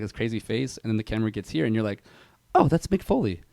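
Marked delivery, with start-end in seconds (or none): 2.5-3.4 higher-pitched mock realization; surprised recognition. Viewer spotting Mick Foley on screen, surprised recognition.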